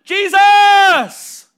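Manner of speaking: high, drawn-out shout to the Lord; calling out. Acted. Acting out calling on the Lord to be saved, shouted. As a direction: belt out the name, hammed-up. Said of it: "call upon the name of the Lord".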